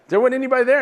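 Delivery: high, puzzled complaint; a hint of a baffled young kid. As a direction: sound confused and a bit cheated. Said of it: "and says".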